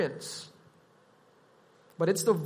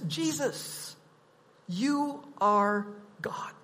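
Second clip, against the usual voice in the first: slow, soft, reverent declaration; hushed confession; 5 dB quieter, slower than usual. Acted. Preacher addresses Jesus as God, hushed and slow. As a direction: let it sink almost to a whisper.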